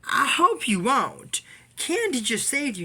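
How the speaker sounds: high, loud parting threat, slowed; mock furious yell; retold yelling. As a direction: shout the vow of revenge. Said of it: "runs off yelling".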